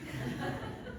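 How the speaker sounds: breathy suppressed giggle mid-sentence; stifled laugh. Retold or imitated. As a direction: snicker under your breath. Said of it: "이렇게 외친 거예요".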